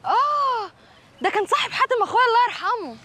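طبقة أعلى بكثير وأعلى شوية; اتكلمي بصوت رفيع متصنع; صوت مرتفع ممثل. Acted. تتكلم بصوت مختلف عالي. (صوت ست شعبية رفيع)

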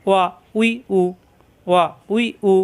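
ওয়া উই উ each clipped short and quick; quick vowel marks. Shown as a demonstration. Teacher drills the harakat quickly for the class. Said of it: "হারকাতের উচ্চারণ তাড়াতাড়ি".

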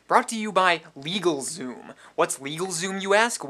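loud, pushy ad read from a shifty guy with something to hide; hard-sell it like a nervous small-time crook; a sketchy, shouting spokesman who keeps oversharing; shady loud pitchman. Acted.

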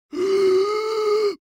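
high, drawn-out dying gasp; last gasp. A narrator's reading. Fallen king at the dungeon door, gasping his last. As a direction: gasp out a final high-pitched breath. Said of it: "he gasped his last breath".

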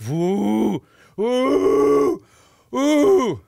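high, loud whoops; mock cheering. Real, not acted. Streamer whoops at the app's success screen, high and loud. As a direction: whoop like a fake celebration.

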